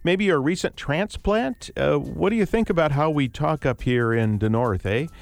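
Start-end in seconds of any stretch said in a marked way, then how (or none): 1.8-5.1 put-on stereotype Wisconsin accent. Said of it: "the stereotype, which I just illustrated".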